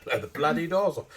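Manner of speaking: Michael Caine style cockney quip; loud gangster movie line; Essex accent. Retold or imitated. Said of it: "Essex lad".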